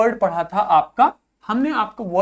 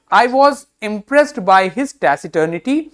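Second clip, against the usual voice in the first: slow example reading; 6 dB louder, much slower than usual. Shown as a demonstration. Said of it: "teacher reads example sentence".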